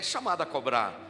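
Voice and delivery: gentle operator voice. Retold or imitated. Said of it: "naquela vozinha mansa da mulher".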